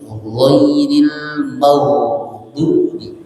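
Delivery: "Ghairil" with a rounded, throaty gh; careful ghain pronunciation. Shown as a demonstration. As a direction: draw out "Ghairil maghdubi" slowly. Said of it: "Jadi huruf ghain mati".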